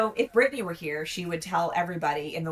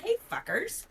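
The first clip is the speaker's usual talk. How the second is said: mock yell; 10 semitones higher, 3 dB quieter than usual. Co-host showing what real yelling would be, mock yell. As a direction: pretend to yell, pitched way up. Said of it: "If I was yelling".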